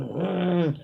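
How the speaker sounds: long, low-key frustrated hum. Retold or imitated. Woman recounting her frustrating day, frustrated hum. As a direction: let out a drawn-out mm of frustration. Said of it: "I'm frustrated. I'm mad".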